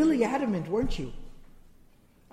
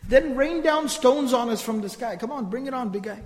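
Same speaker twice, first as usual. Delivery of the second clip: raised-pitch mock defiance; daring God to prove it, acted out; disrespectful challenge; 4 semitones higher than usual. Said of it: "This disrespectful tone. This is how they would speak".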